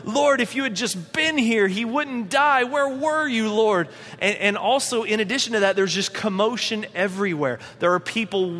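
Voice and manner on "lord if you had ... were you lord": mild higher, grieving plea; a touch of tearful reproach; weeping sisters. Retold or imitated. Grieving sisters reproaching Jesus, mildly tearful. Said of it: "they're weeping and hurting and moaning".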